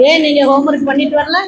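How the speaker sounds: mock-sweet teacher, sound held level; smiling teacher. Teacher asking pupil about missing homework, smiling patience. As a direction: ask with a patient, put-on smile. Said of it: "நம்ம வந்து சிரிச்சுக்கிட்டே இருக்கணும்".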